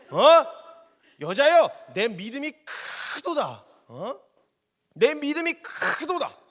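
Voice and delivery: loud, high, delighted exclamation; excited praise. Acted. Jesus praising the woman's great faith, excited outburst.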